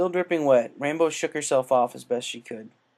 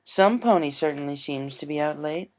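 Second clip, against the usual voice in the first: tender female voice; 4 semitones higher than usual. Acted. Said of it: "came a tender female voice".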